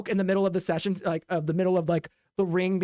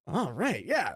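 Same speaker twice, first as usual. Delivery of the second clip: crowd cheering; 5 semitones higher, slower than usual. Acted. Crowd cheering at knife thrower.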